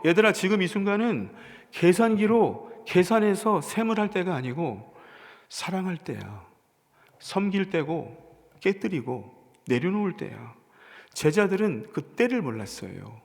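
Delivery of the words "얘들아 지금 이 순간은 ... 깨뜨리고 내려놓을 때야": gentle Jesus. Retold or imitated. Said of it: "예수님이 주신 말씀의 뜻은 이거예요".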